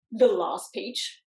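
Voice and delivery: slow, stretched-out dismay; dismayed question. Acted. Hearing it is the last peach of the season, slow dismay. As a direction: draw it out in disbelief.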